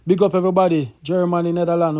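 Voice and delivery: loud, fast radio shout-out. Real, not acted. Host shouting out to fans across the countries, loud. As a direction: hype up the listeners.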